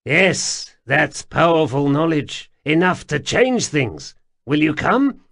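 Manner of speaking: high, loud jittery stranger; pleading, flustered little man; nervous odd man voice. A narrator's reading.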